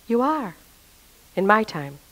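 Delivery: a gentle, unhurried divine reassurance. Retold or imitated. God answering a desperate plea to change, in a gentle voice. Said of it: "this gentle voice said".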